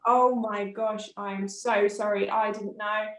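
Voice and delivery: slow, stretched-out shocked sorry; flustered apology. Retold or imitated. Midwife realising her mistake, slow and aghast. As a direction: drag out the apology as if caught off guard.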